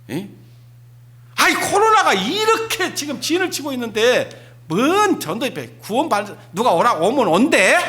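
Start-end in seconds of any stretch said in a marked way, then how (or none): 1.4-7.8 higher, dismissive grumble; scornful complaint. Acted. Church member scoffing at evangelism meeting, mocking grumble. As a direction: scoff at the revival plan.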